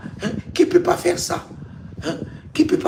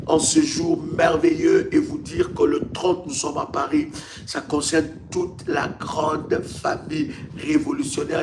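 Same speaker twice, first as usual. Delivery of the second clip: normal talking voice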